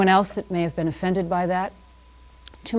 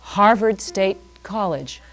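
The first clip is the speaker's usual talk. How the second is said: savoring it; slower than usual. Shown as a demonstration. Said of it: "I get pleasure saying that".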